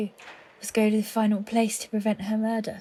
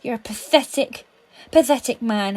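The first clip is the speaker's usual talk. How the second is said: contemptuous; 2 semitones higher, 6 dB louder than usual. Acted. Contemptuous insult.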